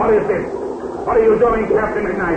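alarmed villain demanding an answer. Acted. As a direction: push it out, rattled and accusing. Villain alarmed as water floods.

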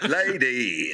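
slow, stretched garage call-out; put-on radio hype. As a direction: draw it out like a garage MC. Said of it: "I speak like that garage voice".

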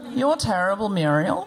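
Muriel's Wedding quote in broad Australian; hammed-up Aussie catchphrase, falling at the end; Australian accent. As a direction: let the lost Australian accent come back for the catchphrase. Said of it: "I've got away, but it comes and goes".

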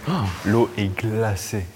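slow, shivering gasp at the cold; in ice cold water. Real, not acted. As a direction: say 'glacée' slowly, chilled by the water.

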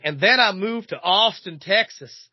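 mock Texan accent. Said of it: "her accent changes".

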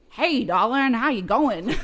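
lightly attempted Texas accent; amateur imitation of a Texas greeting. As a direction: have a go at a Texan drawl, not too convincingly. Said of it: "That's my best Texas accent".

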